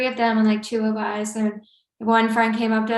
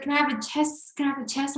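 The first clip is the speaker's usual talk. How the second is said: imitated Albanian accent, pitched up; 4 semitones higher, 4 dB quieter, faster than usual. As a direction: coax in a light Albanian accent. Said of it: "I'm just trying to do his cute accent".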